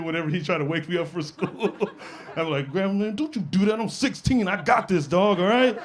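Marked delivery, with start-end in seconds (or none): 2.7-5.8 put-on high-pitched teenage protest. Sixteen-year-old telling grandma he has this, protesting. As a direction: object in a raised pitch, insistently.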